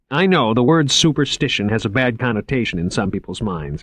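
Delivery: bright, earnest museum curator voice; eager young curator. Acted. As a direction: pitch it up, keen and selling. Curator voice again.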